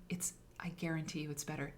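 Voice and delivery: whispered guarantee. Real, not acted. Confiding to students, whispered. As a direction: lean in and whisper it.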